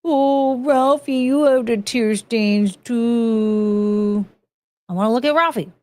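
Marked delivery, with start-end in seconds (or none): 0.0-4.2 slow, gentle coo to a puppy. Real, not acted. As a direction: melt over a sad little face, slowly. Cooing at dog photos.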